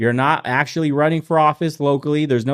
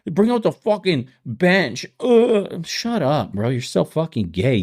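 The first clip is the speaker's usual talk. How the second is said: high, hammed-up fan rant; mock angry fan; 9 semitones higher than usual. Mocking fans ranting at their team, high voice. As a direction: rant at the quarterback like a sore fan.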